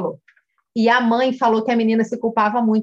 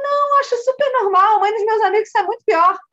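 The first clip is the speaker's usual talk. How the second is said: put-on high-pitched, breezy child's reply; lightly dismissive kid voice, pitched up; voiced young girl; 9 semitones higher than usual. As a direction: imitate a girl brushing it off. Girl's reply voiced in story.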